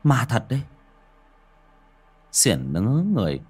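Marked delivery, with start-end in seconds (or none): 0.0-0.6 a touch of terrified stammer to his friend; trembling stammer. Acted. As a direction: stumble and repeat, scared stiff. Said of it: "run rẩy lắp bắp".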